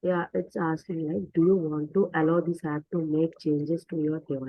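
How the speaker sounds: speaking up. Real, not acted. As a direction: raise the voice so they hear. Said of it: "Can you hear me now?".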